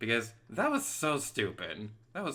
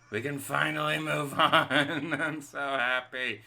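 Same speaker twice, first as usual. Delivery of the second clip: 1 relieved laugh; 4 semitones higher, 3 dB louder than usual. Real, not acted. Relief after catching.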